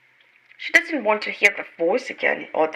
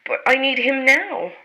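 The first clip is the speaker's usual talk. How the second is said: desperate; 6 semitones higher than usual. Acted. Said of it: "Jane says in desperation".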